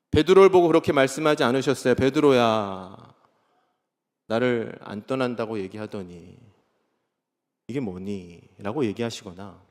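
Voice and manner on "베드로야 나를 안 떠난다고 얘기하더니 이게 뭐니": slow, soft, disappointed reproach fading lower; a quiet letdown scolding, trailing off; hushed hurt reproach to Peter; mock reproach. Imagined rebuke of Peter.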